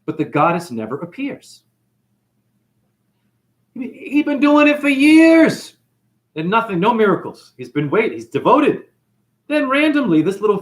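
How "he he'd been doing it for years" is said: dramatic emphasis. Acted.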